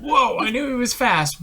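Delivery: high-pitched, amused whoa; retold amazement. Fan retelling reaction to BB-8's speed, amused amazement. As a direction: marvel with a laugh in the voice. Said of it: "I was like".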